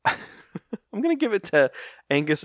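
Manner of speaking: weary, slow tired-mother sigh voice; exhausted mom. Pretend. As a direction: drag it out like a worn-out mom. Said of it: "say it like an exhausted mom".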